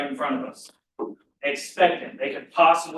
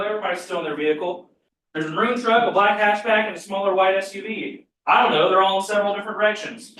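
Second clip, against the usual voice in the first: panicked caller; 2 semitones higher than usual. Retold or imitated. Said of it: "The four direct phone calls can be summed up like this".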